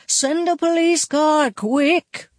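high, loud urgent call; urgent shout. A narrator's reading.

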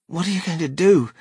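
quick, high, loud question; alarmed cry. A narrator's reading. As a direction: blurt it out in alarm. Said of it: "cried Charlie".

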